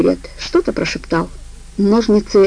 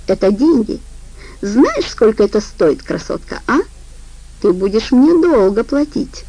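mocking reproach; 3 semitones higher than usual. Жопа издевательски поучает.

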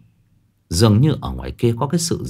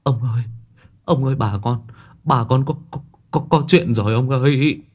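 stammering in fear; 2 semitones higher than usual. Acted. Terrified servant stammers bad news to his master. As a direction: stumble over each word, terrified. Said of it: "nó quỳ xuống lắp bắp".

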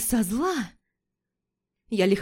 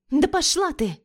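put-on offended girlfriend; 7 semitones higher, 3 dB louder than usual. Лика обиженно ругается.

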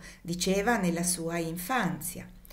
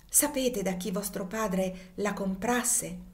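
deeply moved; slower than usual. Acted. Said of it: "con viva commozione disse".

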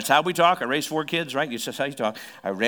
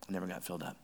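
much softer, lower repeat of I never got filled up; quiet echo; 7 semitones lower, 14 dB quieter, much faster than usual. Shown as a demonstration. Pastor echoing his point to the church, softly. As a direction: let it sink in quietly. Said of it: "line repeated softer".

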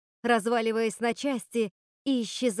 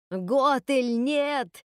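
крик королевы мёртвых; 3 semitones higher, 3 dB louder, much slower than usual. Acted. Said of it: "закричала королева мёртвых".

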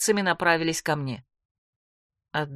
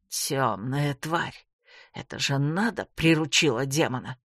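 contemptuous captor; 5 semitones lower than usual. A narrator's reading. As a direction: spit it out with disgust. Captor curses her, voiced low.

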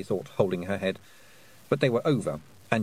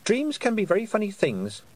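careful; 11 semitones higher than usual. Acted. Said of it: "said Tiffany carefully".

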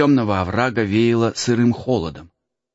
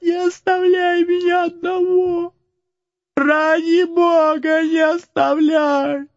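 very high, slow, sobbing scream; desperate crying shout; slower than usual. Acted. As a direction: beg not to be left alone. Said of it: "закричал отчаянным голосом Макс".

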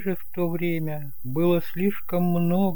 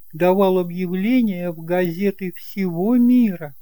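higher aunt voice, brisk and chatty; higher aunt voice telling of the notary's search; aunt Eloi, explaining; 5 semitones higher than usual. Acted. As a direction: fill him in like a busy shopkeeper aunt.

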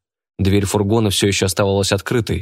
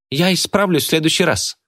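put-on girl voice; 9 semitones higher than usual. A narrator's reading. Girl pleading.

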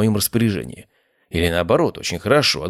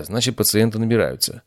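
ordinary delivery

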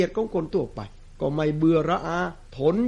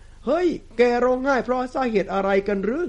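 understated shouted question, pitched up; a touch of a shout in storytelling; mild calling out; 4 semitones higher than usual. A narrator's reading. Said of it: "จึงตะโกนถามไปว่า".

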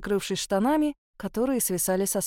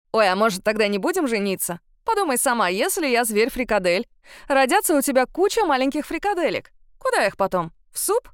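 mock fear; 2 semitones higher, 4 dB louder than usual. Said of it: "в притворном страхе".

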